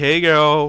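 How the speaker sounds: mocking, put-on, fake friendly voice. Mocking a disliked person's fake attitude, imitating Vanessa's fake friendliness. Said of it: "this fucking fake attitude".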